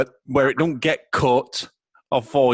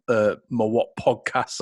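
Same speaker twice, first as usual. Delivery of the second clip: hoarse, losing his voice; worn-out hoarse voice. Real, not acted. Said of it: "I'm losing my voice today".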